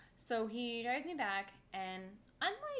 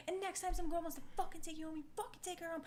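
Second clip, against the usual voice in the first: mock parting shot; 9 semitones higher, faster than usual. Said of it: "I was like".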